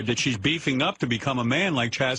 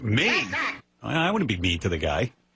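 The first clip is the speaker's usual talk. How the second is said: ordinary talk, nothing marked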